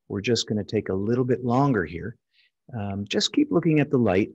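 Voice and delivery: steady the patient without a hint of stress; calm patient voice. Shown as a demonstration. Surgeon calmly reassuring the patient on the bed, soothing and even. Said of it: "staying nice and calm".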